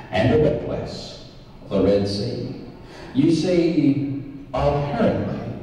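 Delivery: big boxing-match introduction; ring announcer. Acted. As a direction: hype up the villain to the crowd.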